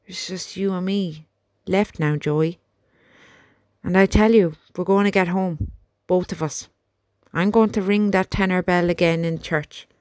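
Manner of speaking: speaking through gritted teeth; grim vow through gritted teeth. Acted. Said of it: "He spoke now through gritted teeth".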